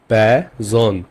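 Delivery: প্যাজন split as 'peh... zohn'; German, by syllables. Shown as a demonstration. Teacher repeats for learners, প্যাজন broken into 'peh, zohn'. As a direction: pull প্যাজন apart into two syllables. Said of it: "পে দিয়ে একটা example".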